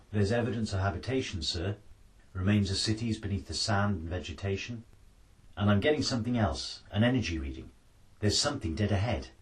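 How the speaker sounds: excited officer. Acted. Science officer alerting the colonel to a reading, urgent.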